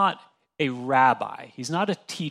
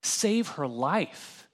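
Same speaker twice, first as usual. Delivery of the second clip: slow emphasis; much slower than usual. Shown as a demonstration. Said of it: "but also really, like".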